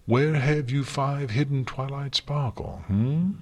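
high, bright playful questioning; exaggerated cheery inquiry. A narrator's reading. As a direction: ask brightly, ending on a rising hum. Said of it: "Luna said brightly".

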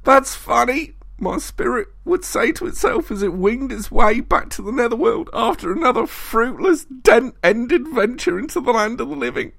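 very high, loud enraged roar; furious bellow. A narrator's reading. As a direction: rant in mounting fury. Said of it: "he bellowed".

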